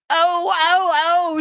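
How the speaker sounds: screaming oh. A narrator's reading. Queen crying out as the brooch flies open, high and loud. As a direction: cry out high and sharp. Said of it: "she said the words".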